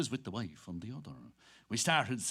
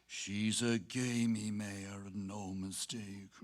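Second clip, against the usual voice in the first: with a sigh; 5 semitones lower, slower than usual. Acted. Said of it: "He said with a sigh".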